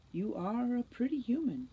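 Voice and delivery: sugary, flattering coax; honeyed flattery. Acted. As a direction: lay the flattery on thick. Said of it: "voice dripping with honeyed flattery".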